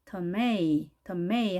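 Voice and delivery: tomato broken off as tuh-MAY, first vowel very weak. Shown as a demonstration. Teacher building up tomato by syllables, weak tuh, stressed MAY. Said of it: "어보다도 더 약하게 발음을".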